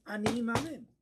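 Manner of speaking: loud, high declaration of faith; strong, unquestioning. Shown as a demonstration. Rabbi showing students how to declare faith, strong and certain. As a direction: proclaim it forcefully with no doubt. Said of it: "There's no questions".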